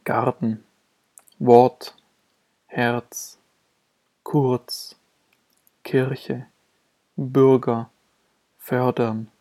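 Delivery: lightly sounded consonant R after the short vowel in "Garten", "Wort", "Herz"; only hint at the R in "Kirche" and "kurz"; weakened consonantal R. Shown as a demonstration. Teacher showing R after short vowels, lightly articulated consonantal R. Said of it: "Hier wird das R weniger stark ausgesprochen".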